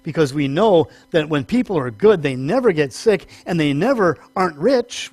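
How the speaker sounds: mildly ironic, swooping emphasis on NEVER; lightly mock a smug, self-righteous belief; dry tongue-in-cheek certainty. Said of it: "Very tongue-in-cheek there".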